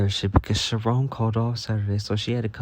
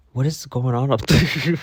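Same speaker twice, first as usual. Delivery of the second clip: laughing quote; 4 semitones higher, 4 dB louder than usual. Retold or imitated. Quoting Shalina laughing.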